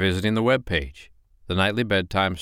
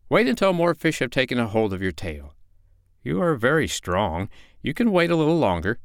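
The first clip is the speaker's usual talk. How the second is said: sly fox; 5 semitones higher than usual. Acted. Fox voiced in story.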